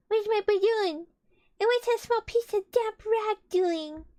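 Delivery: high, loud panicked question; dismayed gasp. Acted. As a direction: Piglet in sudden alarm over the balloon. Piglet discovers burst balloon.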